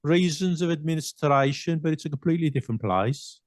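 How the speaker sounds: high, sing-song Brummie complaint; amateur Birmingham accent, pitched high in protest. Acted. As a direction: put on a hammed-up Brummie lilt. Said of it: "I'm doing my Birmingham accent".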